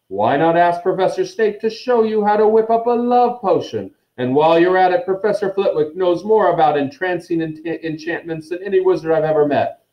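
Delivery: beaming, high-pitched showman; Lockhart. A narrator's reading. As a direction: gush to the whole hall, swooping high. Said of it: "beamed Lockhart".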